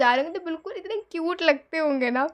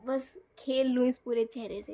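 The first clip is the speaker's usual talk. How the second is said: ordinary delivery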